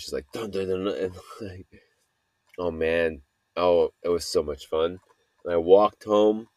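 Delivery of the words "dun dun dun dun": imitated drums. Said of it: "making noise".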